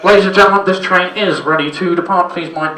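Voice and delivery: loud tannoy announcer voice; platform announcer. Retold or imitated. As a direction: call it out like a platform guard. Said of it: "Guy on the platform is going".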